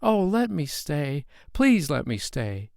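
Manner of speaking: put-on high, slow child's begging; a small boy pleading not to be sent away. A narrator's reading. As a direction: beg like a frightened little boy. Child begs the king.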